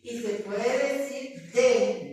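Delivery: "de" said like the letters D and E run together; "de" as a short d-e sound; the other form de. Shown as a demonstration. Teacher contrasting "de" with "di" for students. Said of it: "como que fuese una D y una E".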